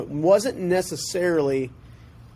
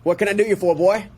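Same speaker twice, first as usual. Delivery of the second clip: higher, louder folksy boss greeting; Steve's greeting; 5 semitones higher, 4 dB louder than usual. Retold or imitated. Boss rolls down window to greet young worker, folksy and louder. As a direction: lean out the truck window, amused.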